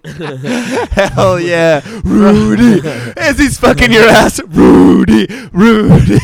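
loud playful calling. Real, not acted. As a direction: call the name across the room. Calling out to the cat.

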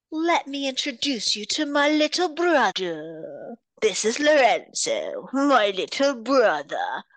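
slow, lightly voiced taunting reveal; a hint of a gloating villain. Villain gloating to Amber, lightly hammed taunt. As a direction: savour the reveal of the brother.

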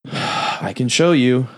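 put-on slow, sighed ghost-girl reply; exhale, then draw it out eerily; creepy ghost girl. Little ghost girl offers to show Mia, creepy slow voice.

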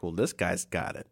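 squeaky laughing break on the end; mock whine into laugh. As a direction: pitch up and crack into laughter. Voicing envious onlookers.

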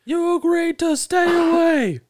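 slow shouted villain line; Darth Vader impression. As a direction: yell it like a hammy Vader. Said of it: "Darth Vader was just like".

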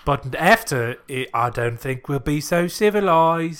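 mock Cockney Aussie blend; Cockney-Australian accent. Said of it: "more Cockney and, like, Australian".

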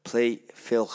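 put-on slow, slurred drunk request; drunk slurring. Drunk friend in his kitchen asking Alexa, slowly slurred. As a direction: slur it like a man who's had a few. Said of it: "He was a bit bladdered".

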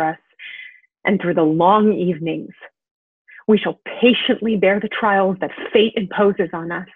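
measured stage monologue with long pauses; Sonia's monologue. Acted. Sonia consoling Uncle Vanya after his suicide attempt, stage monologue. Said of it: "this is Sonia's monologue from the final scene".

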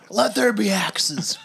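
slow, breathy whisper. Pretend. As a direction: whisper it like a proclamation. Mock divine proclamation.

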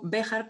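"Béjar" stressed on the E; stress on first syllable. Shown as a demonstration. Guest giving her own surnames, "Béjar" stressed on the E. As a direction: say "Béjar" with the accent on its first vowel, the E. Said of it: "con el acento en la E".

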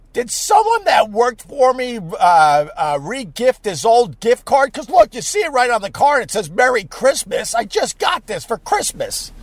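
mildly indignant fake disbelief; put-on outrage over a gift card; feigned shock. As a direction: play innocent and baffled, voice lifted a little. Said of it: "I'm making believe I'm shocked".

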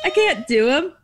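light impression of Kyle's delivery; imitating Kyle. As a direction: do Kyle's way of saying it. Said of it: "The way he does".

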